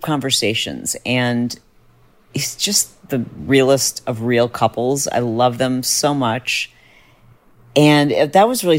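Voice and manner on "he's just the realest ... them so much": slow, hushed and heartfelt. Real, not acted. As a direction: whisper it like a confession of love. Tender aside about close friends.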